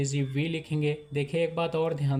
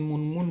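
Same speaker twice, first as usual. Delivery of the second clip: "मुन मुन" read in two pulses; two separate beats. Shown as a demonstration. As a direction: give each "मुन" its own beat. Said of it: "दो झटके में पढ़ेंगे". ("मुन मुन" दो झटके में)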